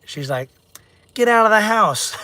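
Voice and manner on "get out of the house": higher-pitched imitation of an angry wife; mock angry wife. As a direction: imitate her throwing you out. Retells wife kicking him out.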